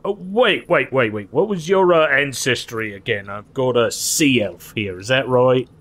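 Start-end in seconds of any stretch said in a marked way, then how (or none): 0.0-3.3 high, startled wait wait; sudden realization. Acted. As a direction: catch yourself mid-thought, surprised. GM voices guard catching error.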